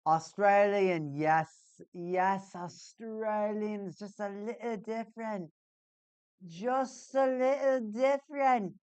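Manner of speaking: mock Australian accent, drawn out; a light Australian accent. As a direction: say it like an Aussie teacher. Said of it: "I've been doing accents".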